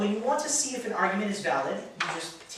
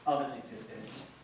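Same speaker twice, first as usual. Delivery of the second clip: slow and soft, long pauses between phrases; slow dictation; 6 semitones lower, 11 dB quieter than usual. Shown as a demonstration. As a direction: dictate it for them to write down. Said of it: "Say with me".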